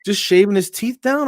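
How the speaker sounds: high, mock-shocked question; incredulous. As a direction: pitch jumps up in disbelief. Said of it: "I'm like".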